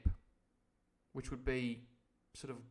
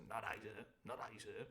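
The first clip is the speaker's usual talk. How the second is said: timid answer; 4 semitones lower, 12 dB quieter than usual. Acted. Timid sailor answering landlord.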